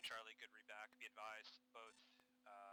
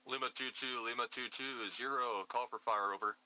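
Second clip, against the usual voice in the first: calm radio call for fire; 17 dB louder than usual. Acted.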